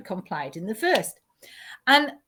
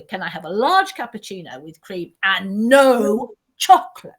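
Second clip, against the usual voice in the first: fussy; 5 dB louder than usual. Retold or imitated. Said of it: "even more fussy".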